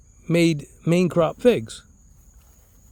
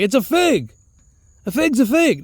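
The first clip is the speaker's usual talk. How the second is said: exasperated insistence; 6 semitones higher than usual. Retold or imitated. Acting out argument with his uncle.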